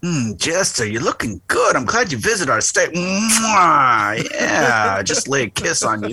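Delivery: lightly voiced Italian New Yorker going in for a kiss; Italian New York accent. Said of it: "with that Italian New York accent".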